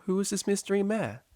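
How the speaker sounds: a teacher gently nudging a student; patient high teacher; teacher's voice. A narrator's reading.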